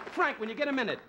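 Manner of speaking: a hint of a wife calling from bed; impatient wife. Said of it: "Barbara, his wife, is going".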